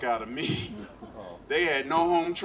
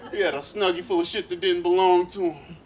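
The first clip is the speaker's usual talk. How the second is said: worked-up rant; 6 semitones higher, 7 dB louder than usual. Real, not acted. Comic rant building, louder.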